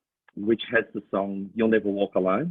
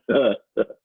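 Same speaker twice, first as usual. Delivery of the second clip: burst of laughter; 4 dB louder than usual. Retold or imitated. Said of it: "and I went".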